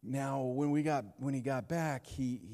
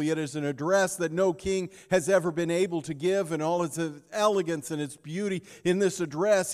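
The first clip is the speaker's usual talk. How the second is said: louder, faster preaching push; rising pulpit intensity; 4 semitones higher, 6 dB louder than usual. Acted. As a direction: build the sermon with fervor. Preaching builds in force.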